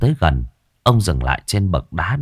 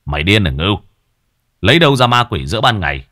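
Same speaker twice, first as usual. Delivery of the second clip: scolding; 4 dB louder, faster than usual. Acted. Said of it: "trợn mắt quát".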